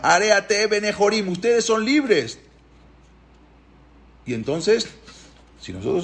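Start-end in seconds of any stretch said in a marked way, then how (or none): 0.0-2.4 high, slow, drawn-out declaration; shouted proclamation. Retold or imitated. Moshe showing Paró what to shout, high slow proclamation. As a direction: proclaim it high for all to hear. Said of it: "di y grita".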